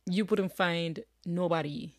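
says nobody in the rural Jamaican way, the double negative kept; country grammar on purpose, you wouldn't find nobody; casual dialect double negative nobody. Shown as a demonstration. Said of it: "nobody, see".

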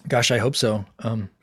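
choking a bit on water; water down the wrong pipe; coughing up water. Real, not acted. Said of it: "a little bit of water went down the wrong pipe there".

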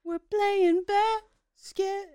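slow, loud, high announcing voice; mock announcer. Co-host mocking the gladiator basketball game, slow booming mock announcement. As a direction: boom it out like an announcer.

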